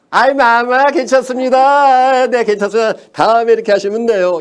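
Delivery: loud, high-pitched sycophant act; fawning treacherous courtier. Acted. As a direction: gush reassurance at the king, hammed-up and drawn out. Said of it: "간신이 이거예요".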